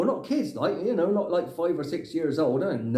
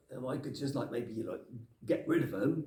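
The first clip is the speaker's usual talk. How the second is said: conspiratorial hush; 4 semitones lower, 9 dB quieter than usual. Real, not acted. Plotting to bin gnomes, very soft.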